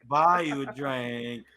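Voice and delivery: slow Auto-Tune style croon; a singer impression. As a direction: sing it like an Auto-Tune singer through a fan. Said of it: the speaker announces being the singer.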